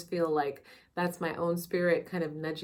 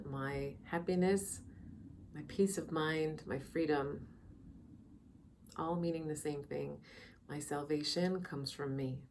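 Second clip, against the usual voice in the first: soft, unhurried meditation guide with long pauses; calm, measured meditation voice; guided meditation; 6 dB quieter than usual. Real, not acted. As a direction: ease listeners into quiet reflection, leaving space between phrases.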